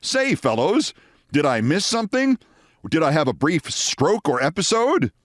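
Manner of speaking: the suit guy lost in the conversation; confused Scott. Retold or imitated. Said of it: "Scott Carter, is really confused".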